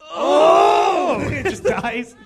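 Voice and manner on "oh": loud, high startled shout; shocked cry. Pretend. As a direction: gasp out a dying shout. Acting shocked death reaction.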